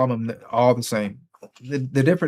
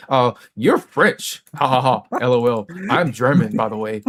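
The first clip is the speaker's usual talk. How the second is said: smug mock brag. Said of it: "so they have to say".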